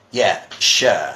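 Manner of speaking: sure said the British way, like John Oliver. Shown as a demonstration. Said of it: "the British sure word".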